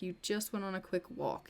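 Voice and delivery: soft, doubting wife; understated disbelief, voice dropped in volume; skeptical echo. Acted. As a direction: echo the excuse back quietly, not buying it. Wife doubts his excuse, echoes him.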